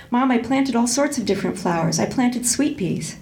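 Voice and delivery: steady storytelling voice, voicing the dialogue lightly; audiobook-style narration of a tense family scene; reading a novel aloud. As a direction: read the passage to the class like a story. Reads a novel passage aloud.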